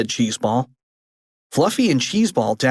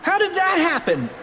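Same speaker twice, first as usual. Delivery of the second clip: puzzled. Acted. Character puzzled.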